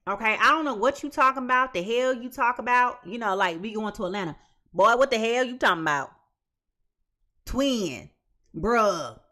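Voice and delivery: tossing off the partner like it's nothing, bruh; slangy dismissive voice. Retold or imitated. Reader mocking a client who brushes off the partner, loose slangy attitude. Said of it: "if he heard me talking like this".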